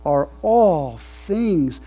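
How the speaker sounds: slow, rising preached reading; scripture doxology. Acted. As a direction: proclaim it, building to amen. Reads doxology.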